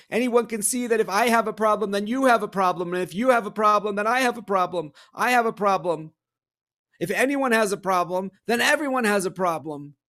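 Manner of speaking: high, desperate pleading; desperate cry. Acted. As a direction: plead desperately for his life. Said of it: "The prince cried desperately".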